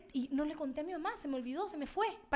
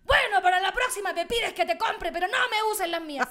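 raised, louder retold scolding; mock-angry telling-off, pitched up; imitating angry mom; 4 semitones higher, 4 dB louder than usual. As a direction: lay down the law like a cross mother. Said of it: "muy enojada me dice".

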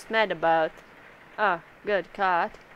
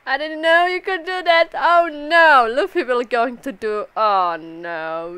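shocked squeal; 4 semitones higher, 6 dB louder than usual. Acted. Voicing character's shocked reaction.

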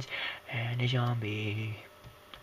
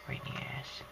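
much softer repeat in a whisper; 9 dB quieter than usual. Real, not acted. To viewers, shot in the ass, whispered aside. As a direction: mutter it under your breath.

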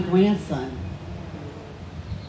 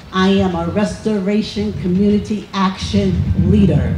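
Action picked out firmly within the title; stress on Action. Real, not acted. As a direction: lean on the word Action. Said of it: "emphasis on action".

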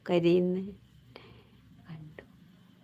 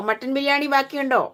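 a hint of a news reporter, higher voice; mock news reporter; 6 semitones higher than usual. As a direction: lightly imitate a reporter's higher-pitched questioning. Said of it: "വാർത്തക്കാർ ചോദിക്കുന്ന പോലെ". (വാർത്തക്കാർ ചോദിക്കുന്ന പോലെ, കളിയായി)

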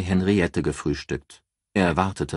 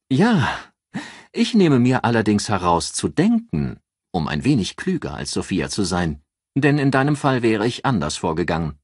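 higher, brisk female voice on the phone; a lightly raised voice for a sharp, self-assured friend; higher voiced Ann, matter-of-fact; Ann, brisk businesswoman; 5 semitones higher, 4 dB louder than usual. Ann's voice, confident.

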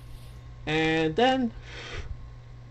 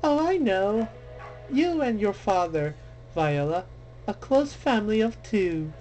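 sly witch voice; 5 semitones higher than usual. Acted. Witch taunting Viola.

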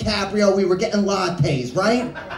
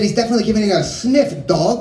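the line again, quicker and punchier; punchline retold faster; faster than usual. Telling the audience the line, faster. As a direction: rush the punchline. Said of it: "I said".

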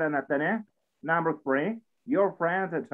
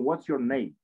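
"What's your name?" with the pitch dropping on "name"; falling question tune. Shown as a demonstration. Teacher models a question-word question, "name" falling. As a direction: ask "What's your name?", letting the voice fall at the end. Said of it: "la entonación baja".

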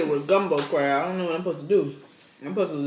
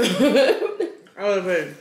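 laughing; much slower than usual. Real, not acted. Laughing about the skip line.

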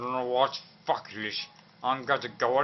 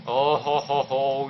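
slow, louder mock drunk laugh; hammed-up tipsy cheer; drunken jolly chuckle; 3 dB louder, much slower than usual. Gamer playing drunk, slow merry chuckle.

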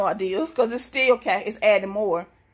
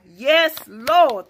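joyful praise; 3 semitones higher, 7 dB louder than usual. Real, not acted. Vlogger thanking God for the penny find, joyful. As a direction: praise the Lord out loud with joy.

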